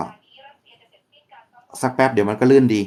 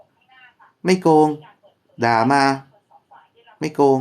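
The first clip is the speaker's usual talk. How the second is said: defensive protest; 3 semitones higher, much slower than usual. Retold or imitated. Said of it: "และบางครั้งก็จะบอกว่า".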